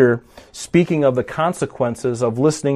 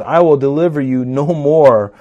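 firm, deliberate stress on no more; serious God; 4 dB louder than usual. Retold or imitated. Preacher repeats God's judgment firmly, serious. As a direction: pronounce the judgment gravely. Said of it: "he's very serious about what he says".

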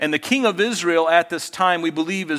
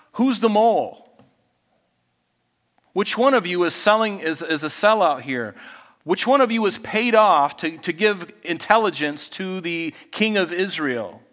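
angry king; 3 semitones higher than usual. Retold or imitated. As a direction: grill your officers for a traitor. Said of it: "he had every reason to be angry".

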